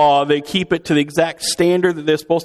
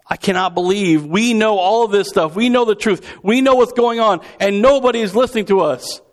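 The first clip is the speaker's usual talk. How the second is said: incredulous complaint, pitched up high; worked-up mock indignation, climbing higher; acted exasperation; 6 semitones higher than usual. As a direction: protest as the only ones who know. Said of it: "it's this".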